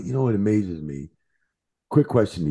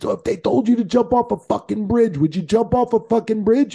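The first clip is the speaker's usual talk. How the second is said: mock scolding. Scolding the referee in retold story.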